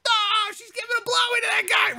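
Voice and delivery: high, amazed realization; mock astonishment. Comic retelling spotting the couple, astonished. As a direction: gasp it out way up high. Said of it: "I'm like".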